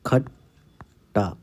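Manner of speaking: खट्टा stretched very slowly, syllable by syllable; dictation-slow खट्टा. Shown as a demonstration. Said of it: "अगला शब्द है खट्टा".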